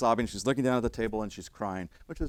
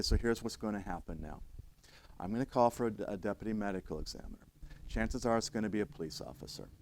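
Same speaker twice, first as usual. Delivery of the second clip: low, soft explanation to a new widow; walk them gently through what happens next; lower, steady reassurance; calm, reassuring; 4 semitones lower, 7 dB quieter than usual. Retold or imitated.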